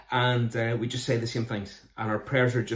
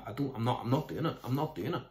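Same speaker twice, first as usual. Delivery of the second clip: inner confession; 6 dB quieter, faster than usual. Retold or imitated. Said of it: "deep down you're going".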